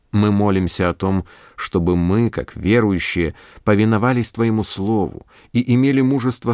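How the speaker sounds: calm earnest prayer voice. Acted. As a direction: pray it steadily and sincerely. Prayer after sermon. (молитвенно)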